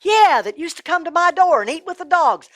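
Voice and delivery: high, loud burst of recognition; excited recognition. Acted. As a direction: suddenly place a familiar person. Rich man recognizes the beggar.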